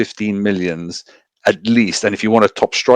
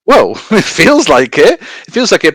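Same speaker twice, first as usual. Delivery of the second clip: laughing while answering, slowed; 9 semitones higher, 6 dB louder than usual. Real, not acted. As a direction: chuckle through the words. Laughing at a teasing jab.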